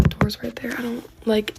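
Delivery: hushed, breathy whisper. Real, not acted. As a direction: drop to a nervous whisper. Hushed retelling, fearful setting.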